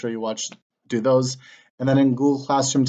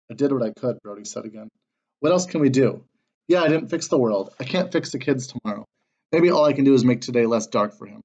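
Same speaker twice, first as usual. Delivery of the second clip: reading a chapter aloud to the class with character voices; story narration. A narrator's reading. Teacher reading a novel chapter to students, story narration. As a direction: tell the story steadily, dropping into the characters now and then.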